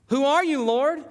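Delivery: high, startled question to the light; Paul asking in shock who speaks; Paul's surprise. Retold or imitated. Paul, struck down, asks the voice in surprise. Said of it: "You imagine Paul's surprise".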